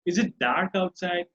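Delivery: slow question, "outside" lifted; rising question tone. Shown as a demonstration. Teacher models a question for learners, slow rising tone on "outside". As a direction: ask slowly, lifting "outside". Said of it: "I'm going with rising tone".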